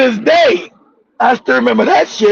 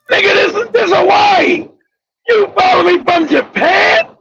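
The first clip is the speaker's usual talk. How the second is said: acted incredulity; 5 semitones higher than usual. Acts out incredulous reply to husband.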